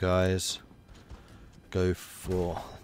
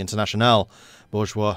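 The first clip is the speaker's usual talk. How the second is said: put-on light French accent on "international bourgeois"; 5 dB louder than usual. Game player reading event text, light French accent. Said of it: "read that in a French accent".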